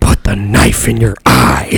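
eerie, creepy, slow horror-movie voice. Retelling a scary movie scene: creepy movie voice imitation. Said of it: "this voice that goes".

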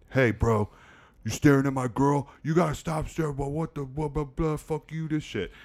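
high, heated, aggressive confrontational bro rant. Retelling a young guy yelling at a homeless man: imitating a guy yelling. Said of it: "yelling at the homeless guy".

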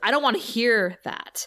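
plain

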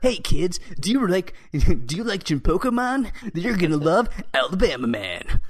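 bouncy, high, loud animated cartoon character voice. Showing the kind of voice used for many cartoon characters, do a cartoon character voice. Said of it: "they use that kind of voice".

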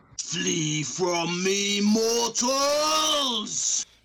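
big, high, booming voice. Narrating a game scene, a voice calls out from the other room: booming voice. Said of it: "you hear this booming voice say".

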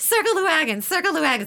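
very high, loud, shrieking repeated scream. Retelling a rainstorm at an outdoor gig: retelling a scream. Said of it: "I'm screaming literally".

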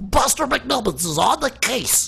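put-on very high, nasal, slightly creaky kid voice. Showing the character voice he wakes his fiance with: Buster McNubbins voice. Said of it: "And the voice is".

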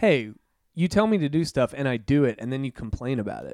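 ordinary talk

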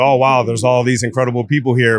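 plain

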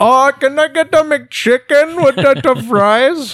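put-on Indian accent. Joking with others, ordering fast food in an Indian accent impression. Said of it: "I'll do my Indian one".

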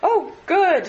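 high, loud exclamation. Narrator reads Mr. Beebe answering Freddy's call, exclaiming. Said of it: "exclaimed Mr. Beebe, mopping his brow".

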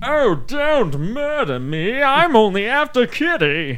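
super posh, hoity-toity, very high-pitched, very slow, drawn-out. Recalling how the characters talked, the speaker imitates them: imitating hoity-toity talk. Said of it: "talk like super hoity-toity".

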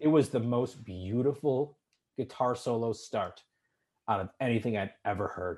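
emotional, choked-up voice catching. Speaker recalling the first time they heard a guitar solo: choked up. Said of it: "like I'm getting choked up now".

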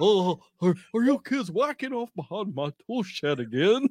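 put-on cartoon father voice. After announcing the character, the speaker delivers a line in a Hank Hill voice. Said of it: "Hank Hill".

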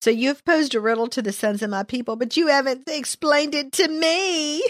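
put-on whiny, complaining voice. Retelling what someone said, trying to get a put-on whiny voice going. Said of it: "I'm trying to get my whiny voice going on".

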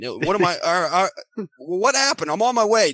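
mock flustered panic. Speaker retelling another man's reaction to his news, imitating flustered panic. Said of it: "he's just like a scatterbrain all of a sudden".

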